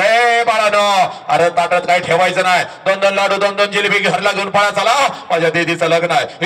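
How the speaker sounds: put-on father calls the kids in high, joyful and generous; proud father's voice. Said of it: "पोरांना तर तुझा बाप म्हणतो". (आनंदी बापाचा आवाज)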